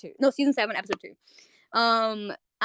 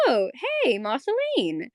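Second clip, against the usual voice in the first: breezy retold greeting, a little high; nonchalant; 3 semitones higher, slower than usual. Bubblegum casually greeting Marceline in a retelling, nonchalant. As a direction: toss off an imitated casual hello. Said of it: "just, like, so nonchalant".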